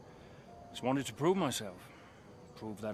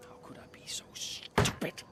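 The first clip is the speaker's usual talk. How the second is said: whispered self-reproach, breathy and unvoiced; bitter whisper. Driver whispering to himself after learning he was fooled, bitter whisper. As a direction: hush it out as if cursing yourself.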